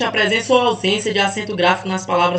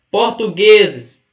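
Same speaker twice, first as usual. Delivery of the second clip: 1 drawn-out word; 7 dB louder, much slower than usual. Shown as a demonstration. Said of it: "teacher stretches word to find stress".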